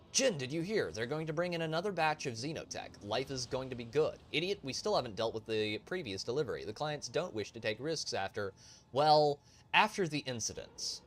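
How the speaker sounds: a hint of rough crew banter; bickering smugglers. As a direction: read the recording as squabbling thugs, lightly acted. Voices smugglers in recorded conversation.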